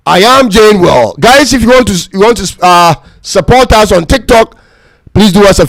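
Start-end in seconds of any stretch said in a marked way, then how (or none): 0.1-1.1 female station ident. Pretend. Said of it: "Let's have some female voice".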